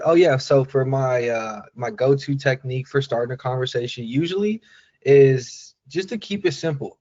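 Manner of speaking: loose, conversational retelling; casual live-thinking delivery for the cold-call script; speaking as if thinking live. Shown as a demonstration. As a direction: talk it like you just thought of it. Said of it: "speaking it ... thinking in live time".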